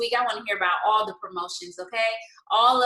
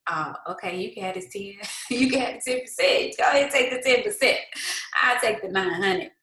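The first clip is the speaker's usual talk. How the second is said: tossing off the ten percent, a hint of swagger; mock-generous James. Retelling James handing God the tenth, mildly hammed-up breezy voice. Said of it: "He was like".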